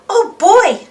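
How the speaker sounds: high and loud delight; excited. Acted. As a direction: burst out with glee. Francine delighted.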